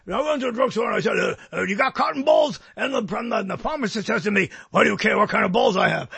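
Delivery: raspy joke-telling in a ranter's voice; hammed-up radio ranter doing a joke; Alex Jones. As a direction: tell the gag in an effortful throaty impersonation. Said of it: "I did a joke, uh, as Alex".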